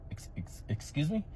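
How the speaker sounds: stunned, breathless whisper; shocked whisper. Acted. Teacher whispering in shock at a child's remark. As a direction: whisper it in disbelief.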